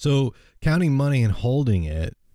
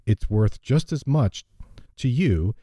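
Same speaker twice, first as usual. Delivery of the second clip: storytelling read-aloud; lightly voiced story narration; fable reading. A narrator's reading.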